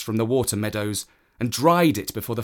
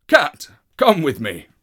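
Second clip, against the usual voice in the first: loud call to the cat; a horse calling the cat; Wild Horse voice; 4 semitones higher, 8 dB louder than usual. Acted.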